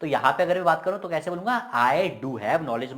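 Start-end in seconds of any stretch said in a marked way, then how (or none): 1.9-3.0 very slow, weighty "I do have knowledge"; emphatic stress. Shown as a demonstration. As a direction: give "do have" long deliberate weight. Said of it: "और ज्यादा जोर से हम बोलेंगे".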